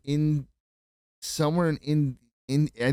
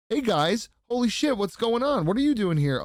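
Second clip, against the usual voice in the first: excited greeting; 9 semitones higher than usual. Retold or imitated. Running into old friends on tour, excited higher greeting. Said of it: "It's like".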